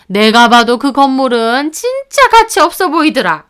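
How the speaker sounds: mother-in-law mocking the bride's family, sharp and sneering; scornful mother-in-law. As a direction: look down on her daughter-in-law. Mother-in-law scolds daughter-in-law.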